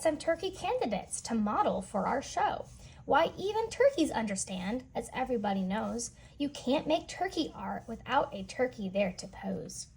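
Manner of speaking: lively storybook reading voice; read-aloud narration. A narrator's reading. Teacher reading a picture book to children, lively storytelling. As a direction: read the rhyme to the kids with bounce.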